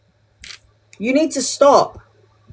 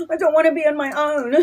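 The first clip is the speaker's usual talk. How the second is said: whiny mum; 4 semitones higher, faster than usual. Retold or imitated. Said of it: "my mum would be like".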